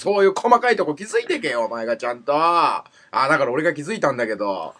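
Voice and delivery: exasperated nagging with bursts of volume; irritated scolding. Real, not acted. Podcast host nags his partner for not noticing details, irritated. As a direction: grumble at a partner's inattention. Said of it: "怒りすぎじゃない？".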